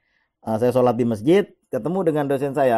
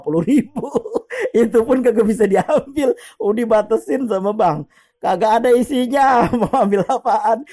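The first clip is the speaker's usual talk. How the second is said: high-pitched, laughing through the words; 9 semitones higher, 4 dB louder than usual. Real, not acted. Speaker joking to listeners about his empty bank account, laughing. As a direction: crack up at your own joke.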